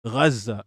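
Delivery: Gaza with a throaty opening sound; deliberate pronunciation. Shown as a demonstration. Streamer annoying people with his Gaza, deliberate pronunciation. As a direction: say Gaza with a guttural first consonant. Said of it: "I just pronounce it that way".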